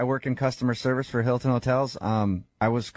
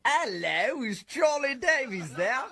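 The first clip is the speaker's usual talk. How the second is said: fake other employee; 9 semitones higher, slower than usual. Caller poses as another hotel worker.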